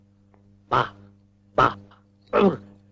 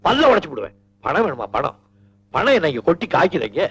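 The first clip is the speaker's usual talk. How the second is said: angry scolding. Acted. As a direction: bark at the girls to come here. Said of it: "இது நிஜமான கோபமா இல்ல எனக்காக நடிக்கிறீங்களா".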